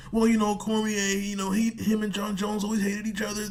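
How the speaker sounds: high mocking voice of an imagined commenter. Mocking a commenter who defends Cormier, high whiny voice. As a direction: put on a whiny know-it-all commenter voice. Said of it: "someone's gonna say in the comments".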